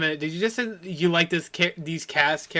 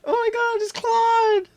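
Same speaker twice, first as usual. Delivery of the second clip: sudden realization; slower than usual. Real, not acted. Sudden recognition after gasp.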